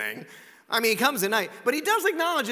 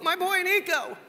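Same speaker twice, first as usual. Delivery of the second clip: proud mother in a mock Jewish accent, pitched high; attempted Jewish accent; 9 semitones higher, 4 dB louder than usual. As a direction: gush in a badly faked Jewish accent. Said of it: "I can't do the Jewish accent well".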